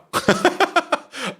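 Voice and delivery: high falling burst of laughter. Real, not acted. Laughs at combat outcome.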